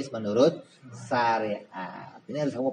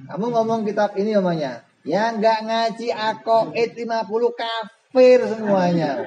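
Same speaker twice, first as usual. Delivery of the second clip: higher, louder rash claim; mock brash know-it-all; 9 semitones higher, 5 dB louder than usual. Preacher mocking a rash man in the mosque, loud and higher. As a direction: parody a careless talker.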